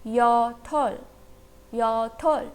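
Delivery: "याथल" in two careful syllables, ending on an L; pronunciation demo. Shown as a demonstration. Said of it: "तो word का pronunciation क्या हुआ?". ("याथल" का साफ़ उच्चारण, अंत में ल)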